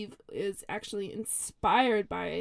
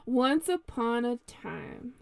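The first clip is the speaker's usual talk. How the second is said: cheesy storyteller; slower than usual. Acted. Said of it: "start out super cheesy".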